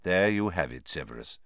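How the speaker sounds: composed, dropping low and soft; calm. A narrator's reading. Headmaster settling an argument, calmly. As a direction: let the name fall away softly. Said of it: "said Dumbledore calmly".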